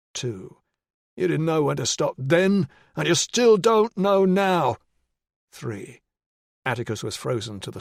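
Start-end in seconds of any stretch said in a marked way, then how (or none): 1.2-4.8 menacing attacker. Acted. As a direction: drag out every word to savor it.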